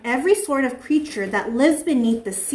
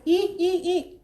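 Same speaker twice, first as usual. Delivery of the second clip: silly dolphin; 5 semitones higher, 5 dB quieter, slower than usual. Pretend. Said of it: "Miss Alice is silly".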